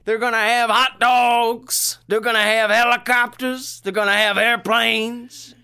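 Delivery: high, loud, slow and overjoyed; giddy farmer impression. Farmer dreaming of the carnival crowd, high and loud with glee. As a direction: savor every treat he lists. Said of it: "He says".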